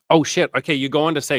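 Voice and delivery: loud, high burst of surprise; surprised reaction. Real, not acted. Reader finds the viewer said exactly this, surprised.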